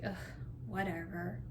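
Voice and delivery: low, quiet mock-sullen grumble; imitated dismissive son. Son brushing off his mother's apology, mock dismissive. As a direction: toss it off like an unimpressed kid. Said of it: "He's like".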